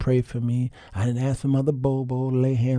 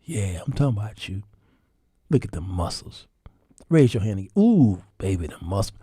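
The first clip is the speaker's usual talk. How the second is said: soft, lower cooing praise; cooing wife; 4 semitones lower, 4 dB quieter, faster than usual. Retold or imitated. Wife flattering her husband's muscles, soft and cooing. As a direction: coo over his muscles.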